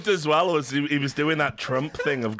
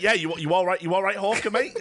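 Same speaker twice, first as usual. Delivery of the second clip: higher, laughing through a mock greeting; laughing impression; 4 semitones higher than usual. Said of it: "He was like".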